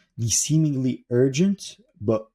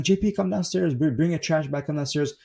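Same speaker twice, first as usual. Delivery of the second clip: mild mock yell, raised in pitch; imitated yelling; 6 semitones higher than usual. Mom to son upstairs about trash bags, mock yelling. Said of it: "And she's yelling".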